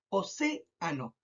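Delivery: Océano slow, CE held, then a low ano; stress on CE. Shown as a demonstration. Teacher repeating the example for pupils, CE stressed in Océano. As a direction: stretch CE and let ano fall away. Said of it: "marco más la palabra en C".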